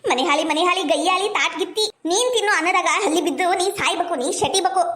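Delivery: mother-in-law's cursing tirade; ranting outcry. Acted. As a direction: rail at the daughter-in-law without letting up. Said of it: "ಯಾಕಷ್ಟು ಬಾಯಿ ಮಾಡಿ ಒದರಾಡ್ತೀರಿ".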